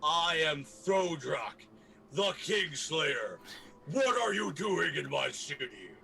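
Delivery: slow, loud heroic proclamation; booming voice. Acted. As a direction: boom it out slowly to intimidate a whole crowd. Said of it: "in my most booming of voices".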